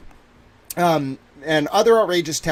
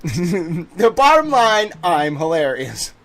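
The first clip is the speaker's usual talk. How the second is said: laughing boast; 3 semitones higher, 7 dB louder, much slower than usual. Real, not acted.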